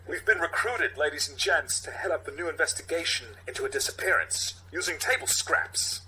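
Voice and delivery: halting Walken cadence, lightly done; Walken impression. Captain laying out the case, in a light Walken voice.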